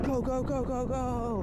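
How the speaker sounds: high, loud urging on; excited cheering. Real, not acted. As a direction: cheer them down the hill. Urging on during sledding ride.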